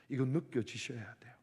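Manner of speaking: usual speaking voice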